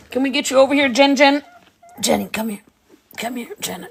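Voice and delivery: calling out. Real, not acted. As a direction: call her over from afar. Calling the dog over.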